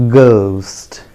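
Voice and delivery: "ghost" with a plain hard g, drawn out; slow model "ghost", no h after g; careful falling "ghost", unaspirated g; correct pronunciation. Shown as a demonstration. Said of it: "The correct pronunciation is".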